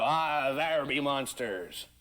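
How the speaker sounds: slow, lightly voiced pirate drawl; a touch of a pirate spinning a yarn. Shown as a demonstration. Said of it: "'Cause I did play a pirate once".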